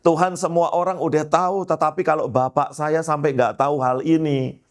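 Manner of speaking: earnest prayer. Retold or imitated. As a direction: plead as if striking a bargain. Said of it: "Doa saya gini".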